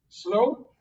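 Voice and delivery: a slow cue word; drawn-out slow. Shown as a demonstration. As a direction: stretch the word slow long and easy.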